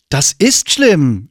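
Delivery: langsam, etwas höher, leicht schimpfend; empört die Jungs zurechtweisen. Acted. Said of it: "schimpfte Mia". (mild schimpfend)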